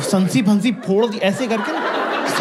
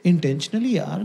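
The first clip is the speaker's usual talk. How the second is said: softer, slow, wounded; mock hurt plea; 4 dB quieter, much slower than usual. Comic mimics girlfriend hurt by his shouting. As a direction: plead softly and slowly.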